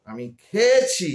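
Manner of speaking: খেয়েছি said slowly with a falling end; careful pronunciation. Shown as a demonstration. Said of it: "তিনটে উচ্চারণ আলাদা".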